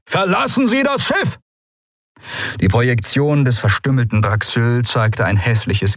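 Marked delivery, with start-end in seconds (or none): 0.1-1.4 high, desperate yell; roaring a name. A narrator's reading. Admiral yelling to his friend on the doomed ship, high desperate roar. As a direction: shout her name across the bridge. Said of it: "brüllte Teleos".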